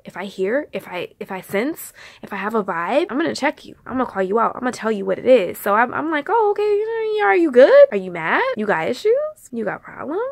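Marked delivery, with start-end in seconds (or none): 6.3-10.2 high, loud start, then a string of rising questions; pressing questions. Retold or imitated. Vlogger checking a friend on a vibe, pressing. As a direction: fire off accusing questions, each tipped up. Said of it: "Asking all them questions. Assuming".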